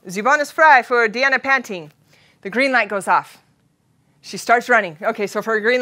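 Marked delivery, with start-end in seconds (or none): 0.1-1.9 German announcer. Retold or imitated. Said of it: "Deanna's name is called".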